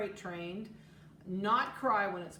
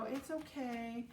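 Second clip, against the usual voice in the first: soothing; 4 semitones higher, 5 dB quieter, slower than usual. Retold or imitated. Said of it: "your kids walk over and go".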